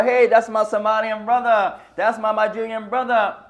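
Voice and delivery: loud call naming his origin, falling at the end; a loud "Hey, that's my Somalian brother" shout across the room; wrong way to call out. Shown as a demonstration. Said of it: "I shouldn't speak like that".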